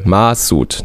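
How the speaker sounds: MA-soud, weight on the first syllable; stress on first syllable. Shown as a demonstration. Host claims the correct German stress, first syllable stressed. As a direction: lean on the MA of Masoud. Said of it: "die Betonung ist ja auf der ersten Silbe".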